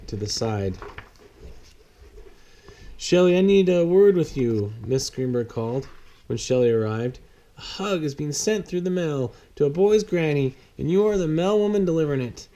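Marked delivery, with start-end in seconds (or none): 3.0-12.5 Miss Greenberg. Acted. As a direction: call her over, then explain briskly. Miss Greenberg calls Shelley.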